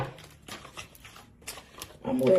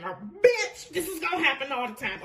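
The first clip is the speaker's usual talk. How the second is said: laughing; 6 semitones higher, 3 dB quieter than usual. Real, not acted. Laughing at a repeat card.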